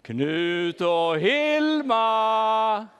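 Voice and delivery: very slow, drawn-out loud call; long sung-out call to lost sheep. Acted. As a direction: drag the names out long to the far hills. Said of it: "En gång till".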